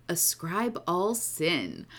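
slow, low seductive radio announcer; sexy radio voice. Acted. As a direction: purr the title like late-night radio. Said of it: "the sexy radio voice".

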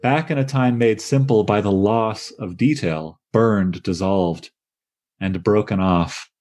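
slow reading, pause after detail, burned, dissolved. Shown as a demonstration. Lecturer reading the line slowly to show its pauses. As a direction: linger on each word and let pauses hang. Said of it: "we won't be reading the poem this slowly".

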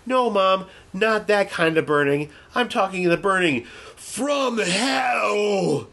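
put-on high girl voice turning slow and ominous; creepy little girl. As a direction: let the kid's voice slide into something sinister. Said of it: "She's like".

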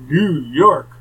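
incredulous echo. Retold or imitated. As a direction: echo it back in mock disbelief. Mimics her reaction to New York.

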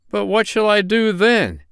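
high, loud pirate's protest; pleading pirate. A narrator's reading.

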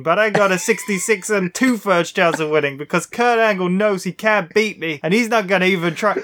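running out of breath while reading; gasping for air between phrases. Real, not acted. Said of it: "I'm running out of breath".

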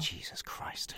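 exasperated breathy whisper. Acted. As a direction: swear under your breath so she can't hear. Hiding talk from the girl.

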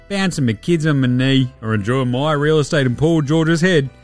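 broad Aussie basketballer voice, lightly put on; laid-back Aussie bloke hosting a mock HR show; Joe Ingles impression. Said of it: "Joe Ingles here, head of Jingles H R".

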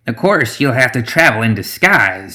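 lightly voiced witch with lifted start; a hint of a knowing matriarch; swamp witch Zoraida. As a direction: advise him with a swooping lilt. Voices Zoraida advising the brewmaster.

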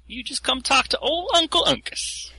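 put-on high, wheedling old-uncle voice; creepy old uncle voice. NPC names himself, odd voice.

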